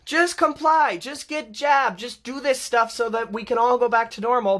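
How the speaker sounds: mimicking scolding pro-mandate people; mocking the scolds. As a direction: sneer out their slogans. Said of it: "They're like".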